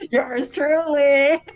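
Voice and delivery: slow, drawn-out villain signoff. Acted. Friend reads the villain's signoff aloud, slow and smug. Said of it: "Sign Shredder".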